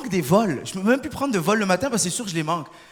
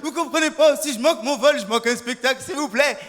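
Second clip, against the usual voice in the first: higher-pitched mock pleading; tearful pleading; 4 semitones higher than usual. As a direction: beg with a touch of acted tears. Crying passenger pleads with hostess.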